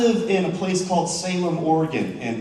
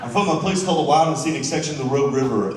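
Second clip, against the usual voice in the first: faster laughing retake; faster than usual. Real, not acted. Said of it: "repeats line after laughter".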